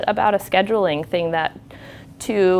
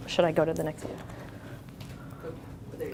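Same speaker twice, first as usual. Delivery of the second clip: very soft, slow aside; real hushed check-in; quiet aside; 12 dB quieter, much slower than usual. Real, not acted. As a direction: ask under your breath, off to someone nearby. Aside about the slides.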